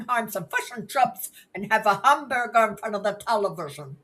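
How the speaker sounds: Kiwi accent. Shown as a demonstration. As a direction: exaggerate every Kiwi vowel. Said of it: "That's what I hear".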